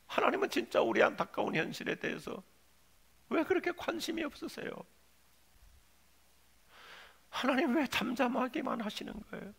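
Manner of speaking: aggrieved plea, pulled back from the shout; Habakkuk. Acted. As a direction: complain to God in a restrained voice. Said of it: "볼멘 소리로 하나님을 향하여 질문하면서". (서운한 듯 볼멘소리로)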